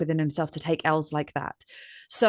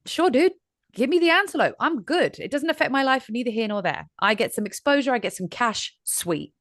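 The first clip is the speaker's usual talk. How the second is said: higher, easygoing shrug of a voice; laid-back old lion; 6 semitones higher than usual. Retold or imitated. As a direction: toss it off like an old lion who couldn't care less. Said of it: "Old man lion, Tyson, is like".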